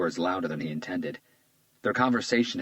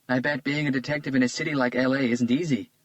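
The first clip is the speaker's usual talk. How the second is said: put-on lightly raised, charmed young woman; a flattered young woman, a bit higher; Isabella's voice; 7 semitones higher, 4 dB louder than usual. A narrator's reading. Isabella charmed by Hunter's compliment, lightly higher voice.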